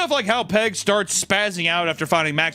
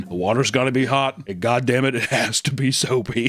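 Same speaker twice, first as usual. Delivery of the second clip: drilling it in; 4 semitones lower than usual. Pretend. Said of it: "really trying to drill in".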